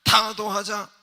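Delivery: mock North Korean slogan, slow then shouted; hammed-up propaganda slogan. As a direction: chant it like a North Korean broadcast. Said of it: "북한 말이 어때요?".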